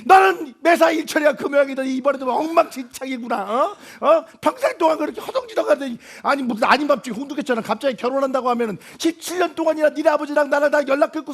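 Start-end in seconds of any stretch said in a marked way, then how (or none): 0.0-6.0 mother berates her hapless son; scolding mother. Acted.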